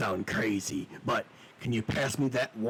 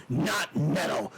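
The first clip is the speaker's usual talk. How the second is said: outraged cry; 5 semitones higher, 3 dB louder, slower than usual. Acted. Prince outraged, echoes taunt.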